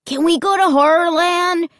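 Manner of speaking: put-on high-pitched excited boy; pestering kid's eager question; eager asking. A narrator's reading. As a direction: ask hopefully, pitch lifted throughout. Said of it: "Luke asked".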